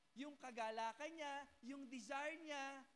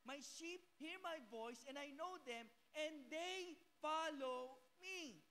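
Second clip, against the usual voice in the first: slow, drawn-out Bible quote; slow scripture quote; 3 semitones higher, slower than usual. Acted. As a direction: savor each word of the verse. Quoting Bible slowly. (mabagal na pagsipi ng Bibliya)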